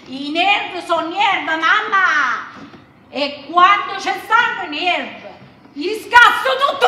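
rising fury. Acted. Daughter losing her temper with her mother, furious. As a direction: let the anger climb to a loud threat. Daughter threatens to smash everything.

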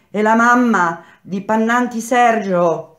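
high, loud, drawn-out call; woman shouting. A narrator's reading. Wife calling for a prisoner's mother, shouting. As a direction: announce it up to the cells. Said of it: "tornò a gridare".

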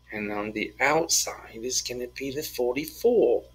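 lightly put-on British accent read; teacher reading a word problem in mock British. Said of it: "I'm doing it British again".

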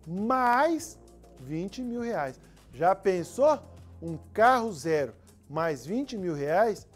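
loud, excited prize hype. Acted. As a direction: sell the prize big. Ad read hyping prize.

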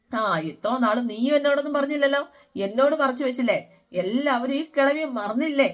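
a hint of a wounded old grandmother; lightly voiced grandma, wounded and reproachful; grandma's complaint. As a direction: plead like a hurt old woman left out.

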